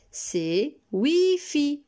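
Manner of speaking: slow, clear model of the word Wi-Fi. Shown as a demonstration. Teacher modelling "Wi-Fi" slowly for children. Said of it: "j'ai besoin de vos oreilles".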